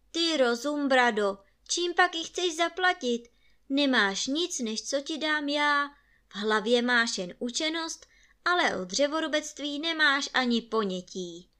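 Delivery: loud, high scolding rant; shouting father. A narrator's reading. Father scolds his son over the ruined axe, loud shouting. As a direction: berate the boy at the top of the voice. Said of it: "křiknul otec".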